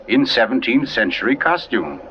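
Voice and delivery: measured storyteller reading a mystery; story narration. A narrator's reading.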